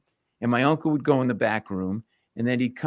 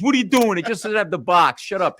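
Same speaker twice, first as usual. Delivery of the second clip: raised, dismissive wiseguy retort; imitated impatient hustler; mock indignant brush-off; 5 semitones higher, 4 dB louder than usual. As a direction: brush him off like a cousin running a scam. Acts out cousin brushing off complaint.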